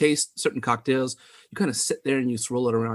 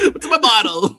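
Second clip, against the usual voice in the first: put-on child's cry; 8 semitones higher, 5 dB louder than usual. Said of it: "wake up tomorrow morning like".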